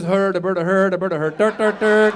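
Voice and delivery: mock Swedish singsong gibberish; Swedish Chef. Comic showing his only Swedish accent, silly Swedish gibberish. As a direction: babble nonsense in a cartoon Swedish accent. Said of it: "Swedish chef".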